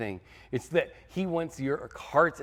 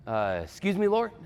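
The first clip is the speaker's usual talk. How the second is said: much higher, questioning interruption; hesitant interjection; 6 semitones higher than usual. Acted. Gideon interrupting the Lord to query his orders, high and hesitant. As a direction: politely butt in, pitched up high.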